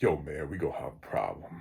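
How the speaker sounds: really low, very deep voice, lowest he can manage. Retelling what Sean said to the speaker, imitating Sean's really low voice. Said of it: "He's got a really low voice".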